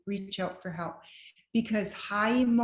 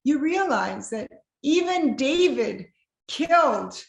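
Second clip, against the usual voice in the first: mock threat; 7 semitones higher, 6 dB louder than usual. Joking threat to pastors.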